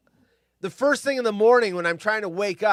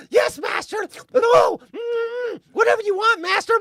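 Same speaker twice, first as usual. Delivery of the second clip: high, loud fawning servant voice; groveling dog; 5 dB louder than usual. Retold or imitated. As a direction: beg like an eager kiss-ass dog. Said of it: "The dog will be all".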